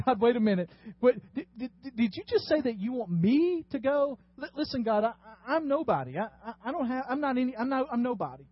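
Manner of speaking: a nervous Moses begging God to pick someone else; flustered Moses. Acted. Pastor voicing Moses as a flustered, stammering pleader.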